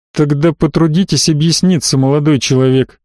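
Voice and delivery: plain reading voice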